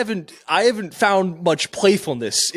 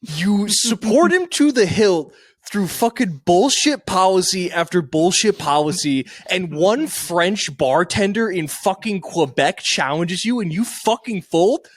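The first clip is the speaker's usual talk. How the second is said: mock rant; 3 semitones higher than usual. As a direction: pretend to be scandalized. Friend mock-rants about father folding.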